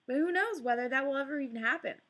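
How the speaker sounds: rushed, hurried thought; quick hopeful thought. Acted. Girl reassuring herself, quickly thinking it through. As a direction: talk herself into it, fast.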